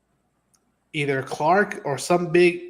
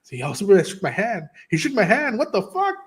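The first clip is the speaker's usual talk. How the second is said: giddy disbelief; 5 semitones higher than usual. Retold or imitated. Starstruck fan gushing that Superman shook his hand. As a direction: pitch climbing higher and higher in excitement. Excited retelling of Superman meeting.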